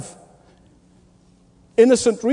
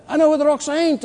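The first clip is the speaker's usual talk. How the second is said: "I know where the rocks ain't" repeated higher with a stress on know; punchline lifted higher; 8 semitones higher, faster than usual. Shown as a demonstration. Preacher repeats the young man's answer to the church, higher and emphatic. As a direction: hit "know" high as the punchline. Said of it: "repeated punchline, pitched up".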